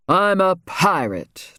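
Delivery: ugly tone. Acted. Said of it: "in an ugly tone".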